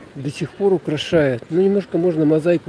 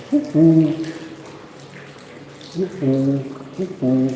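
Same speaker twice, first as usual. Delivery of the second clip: calling out into an echoing hall; slower than usual. Shown as a demonstration. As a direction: call out to hear the echo. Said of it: "Вот такое вот эхо". (крик в гулком зале с эхом)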